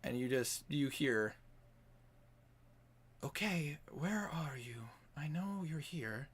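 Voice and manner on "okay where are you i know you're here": soft, creepy whisper; eerie whisper. Acted. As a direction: whisper like someone hunting you. Unseen voice in hallways.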